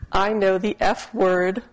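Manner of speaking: giggling through the words; a kid barely holding in laughter; giggly child. Retold or imitated. Kindergartner giggling the secret word at dinner.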